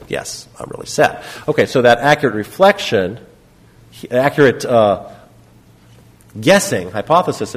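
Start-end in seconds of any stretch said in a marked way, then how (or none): 0.1-1.2 a soft, breathy, tearful yes; tearful admission. Retold or imitated. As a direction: let the grief finally slip out, barely voiced. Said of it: "Then she burst into tears".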